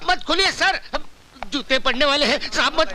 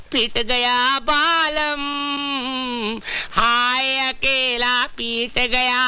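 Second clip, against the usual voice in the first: wailing lament; much slower than usual. Acted. Servant lamenting after being beaten.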